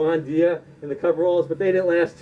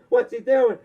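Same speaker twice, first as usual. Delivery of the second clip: What's he doing? only lightly raised; mild panicked official; 4 semitones higher than usual. Retold or imitated. NWA official panicking as the belt is thrown down, lightly raised. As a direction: repeat What's he doing? nearer the normal voice. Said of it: "The guy in the N W A is like".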